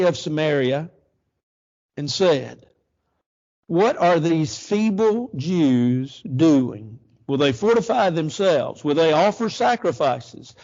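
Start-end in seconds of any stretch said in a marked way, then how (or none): 3.7-8.8 slow, drawn-out scoffing question; mocking ridicule. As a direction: read it like a governor sneering at the Jews. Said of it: "look at his ridicule".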